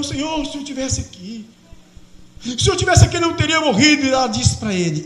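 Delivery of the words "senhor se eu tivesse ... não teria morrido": mild weeping plea. Acted.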